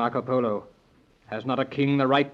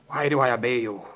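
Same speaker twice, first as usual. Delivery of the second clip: spellbound whisper. Acted. King under her spell.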